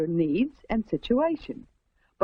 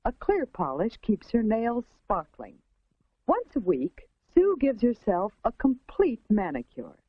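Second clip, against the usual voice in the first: 1950s narrator. A narrator's reading.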